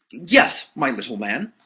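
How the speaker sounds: a touch of nervous reassurance; anxious. A narrator's reading. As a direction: nervously play the doctor. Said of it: "Slightly anxiously replied".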